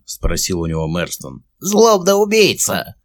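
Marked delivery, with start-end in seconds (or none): 1.6-3.0 very high, slow creaky goblin. A narrator's reading. Captive goblin answering the commander, creaky high voice. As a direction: spit it out like a nasty little goblin. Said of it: "отозвался тот скрипучим голосом".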